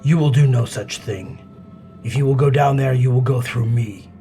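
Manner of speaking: warrior's threat. Acted. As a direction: block the way with force. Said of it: "and says".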